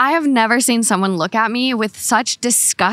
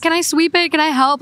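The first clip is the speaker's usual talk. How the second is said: lightly higher eager offer to help; eager helper; 7 semitones higher than usual. Retold or imitated. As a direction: offer help a bit too brightly. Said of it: "And I'm like".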